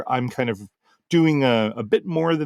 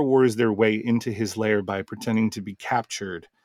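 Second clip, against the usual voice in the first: plain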